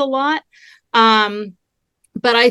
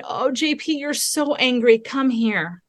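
gentle, soft-voiced sympathy, retold; comforting parent; 4 dB quieter, slower than usual. Mother to her furious five-year-old, softly comforting. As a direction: softly soothe an upset child, voice lifting on the name.

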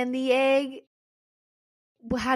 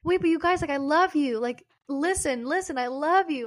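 higher-pitched mock plea to friends; acted gushing affection; 4 semitones higher than usual. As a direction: insist on it, hammed-up and affectionate.

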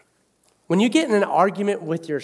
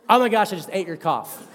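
laughing. Retold or imitated. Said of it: "I was like".

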